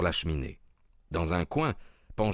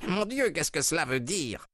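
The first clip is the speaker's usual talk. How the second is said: higher, stunned exclamation; shocked cry; 9 semitones higher than usual. A narrator's reading. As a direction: cry out in disbelief. (cri de stupeur, voix haute)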